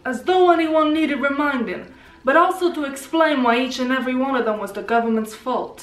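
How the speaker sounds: put-on New York Italian accent. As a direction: read it like a Joey-style New Yorker. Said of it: "New York".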